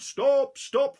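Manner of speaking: high, loud shout of stop. Acted. Husband chasing the gingerbread man, loud high shout. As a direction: yell after the runaway. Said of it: "followed by the farmer's husband".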